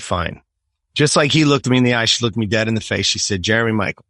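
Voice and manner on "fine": clipped fine. Retold or imitated.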